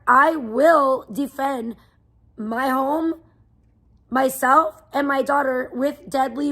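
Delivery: drawn out and firm; slow, deliberate vow. Real, not acted. Streamer warning a stalker's backer, slow and grim. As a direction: lay each word down slowly like a threat. Vows to defend home with force.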